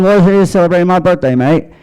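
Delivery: put-on British accent. Comic mimicking McCartney's British accent back at him. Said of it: "I'm like".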